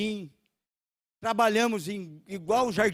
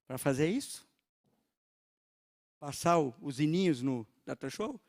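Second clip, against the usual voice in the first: devil's voice; 5 semitones lower than usual. Retold or imitated. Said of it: "o diabo tentou colocar no meu coração".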